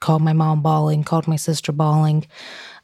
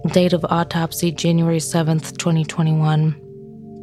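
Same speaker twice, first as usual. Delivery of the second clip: true crime narrator. Acted. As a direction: read the report out evenly and gravely. Reads out the autopsy report.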